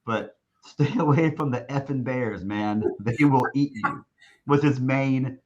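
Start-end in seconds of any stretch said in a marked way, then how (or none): 0.7-4.0 quoting the coach's warning through a laugh; retelling the Bears warning, laughing; laughing while quoting. Retold or imitated. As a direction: chuckle through "Stay away from the effing Bears". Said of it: "his main word of emphasis".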